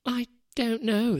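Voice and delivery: breathy whispered aside. Acted. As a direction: whisper it offhand.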